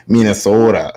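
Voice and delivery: mock Minnesota accent, long O. Showing a hated accent, mock Minnesota accent. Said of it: "I hate Minnesota accent".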